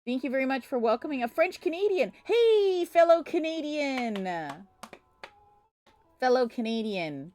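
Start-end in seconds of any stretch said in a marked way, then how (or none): 2.2-7.3 high, drawn-out happy hail; excited greeting. Real, not acted. Streamer welcoming a French Canadian to chat, excited greeting. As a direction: call it out high and stretch it.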